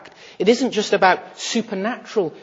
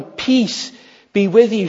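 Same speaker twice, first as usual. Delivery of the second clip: clear, louder declaration of peace; proclaimed blessing; 3 semitones higher, 6 dB louder, slower than usual. Acted. Preacher declares Jesus' greeting to the disciples, proclaimed loudly. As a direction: announce it boldly to the room. Quoting Jesus again, verse 21.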